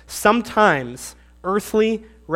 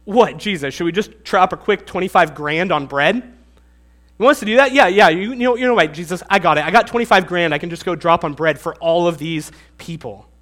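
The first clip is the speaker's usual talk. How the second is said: mock disbelief, a little louder; incredulous sarcasm; 4 dB louder than usual. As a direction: scoff at the idea, half-joking. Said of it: "it might be like they're saying".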